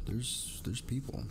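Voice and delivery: high soft amazed voice; surprised. Real, not acted. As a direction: marvel at it quietly. Surprised at viewers arriving.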